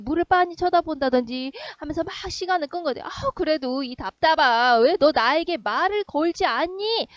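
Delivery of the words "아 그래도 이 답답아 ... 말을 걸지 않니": put-on frustrated girl. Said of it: "라는 거죠".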